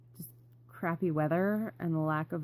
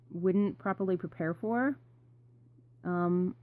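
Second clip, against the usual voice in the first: mouth full. Real, not acted. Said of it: "I got something in my mouth".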